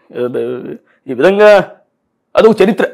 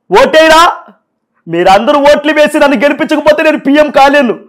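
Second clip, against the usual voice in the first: Paul impression; 5 semitones higher than usual. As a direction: speak up high like the pastor-politician. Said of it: "ఇప్పుడు Paul గారు చేస్తాం".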